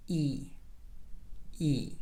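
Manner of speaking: "E" with mouth spread sideways; wide EE vowel. Shown as a demonstration. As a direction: stretch "E" as a tense ee. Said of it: "your mouth opens from side to side".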